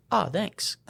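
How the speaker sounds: high, laughing little thanks; laughing mock thanks. Medic retelling the patient's sudden thanks, laughing. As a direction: chuckle through the patient's fake gratitude.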